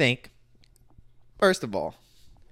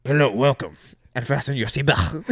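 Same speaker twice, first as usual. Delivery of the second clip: flight attendant announcement; 2 semitones lower than usual. Pretend. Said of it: "go to the intercom and be like".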